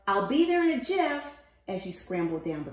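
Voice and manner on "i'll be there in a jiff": higher, louder reassuring call; yelling. A narrator's reading. Parent yelling up to babies stuck in tree, loud call. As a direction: call up that help is coming. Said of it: "You yelled".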